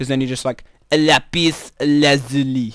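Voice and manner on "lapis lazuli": put-on French accent on "lapis lazuli". Spotting lapis lazuli down there, saying it in a put-on French accent. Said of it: "I love saying lapis lazuli in a French accent".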